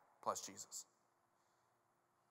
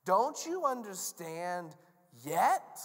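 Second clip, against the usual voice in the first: slow, firm, forceful question; drawn-out stern demand, louder at the end; exasperated Jesus; 3 semitones higher, 5 dB louder, much slower than usual. Acted. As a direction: spell it out word by word.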